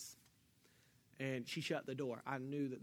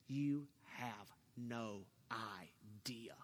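slow, breathy whispered reply; 5 semitones lower, 6 dB quieter, much slower than usual. Retold or imitated. To a coworker who shut the door, a slow whisper. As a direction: hiss it low and slow, holding back. Tense office confrontation retold.

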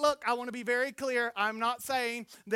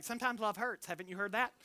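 softer, knowing tease of "Sometimes love hurts"; soft teasing; 3 semitones lower, 6 dB quieter, faster than usual. Retold or imitated. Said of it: "I say, like".

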